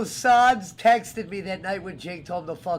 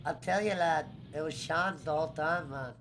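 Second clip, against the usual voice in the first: imitating Doyle's Irish accent; lilting Irish voice, laid-back; 3 semitones lower, 4 dB quieter than usual. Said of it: "I was replicating Doyle when he goes".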